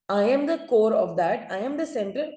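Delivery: slow, self-important boast; mock bragging, drawn out; boastful tongue. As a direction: puff yourself up, lingering on each claim. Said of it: "उसको हम एक घमंडी जबान बोलते हैं".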